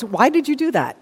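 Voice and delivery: condemning self-talk. Acted. Inner critic berating someone for what they said, mildly condemning. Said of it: "adds a running commentary of condemnation".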